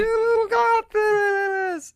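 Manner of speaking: very slow, high echoing whisper-call; dreamy distant voice. Pretend. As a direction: stretch it out like a dream echo. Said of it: "Does it sound realistic?".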